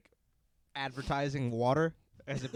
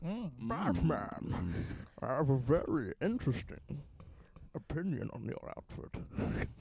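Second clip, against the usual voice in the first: seductive Bane; 3 semitones lower, 5 dB quieter, slower than usual. Acted. Voicing Bane flirting with Batman.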